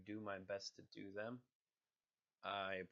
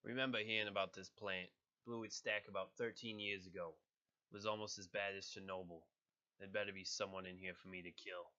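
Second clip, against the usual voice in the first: put-on light New York accent, tough; a killer muttering in a New York accent. Crossbones with a mild New York accent. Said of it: "a New York accent".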